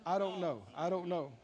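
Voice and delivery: mock the doubter's endless I don't know. Preacher mocking a believer's whining doubt, droning. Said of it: "go around all the time saying".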